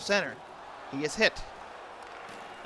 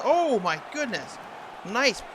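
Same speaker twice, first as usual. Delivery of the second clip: surprised; 5 semitones higher, slower than usual. Real, not acted. Big blocker save reaction.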